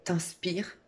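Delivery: breathy, drawn-out inhale on the word; breathing demonstration. Shown as a demonstration. Showing a listener a relaxation technique, audible slow inhale. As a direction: say it slowly on an indrawn breath. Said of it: "technique de relaxation".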